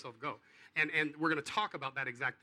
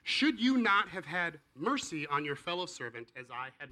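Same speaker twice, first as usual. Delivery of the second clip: stern master; 3 semitones higher, 7 dB louder than usual. Acted. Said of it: "the master said".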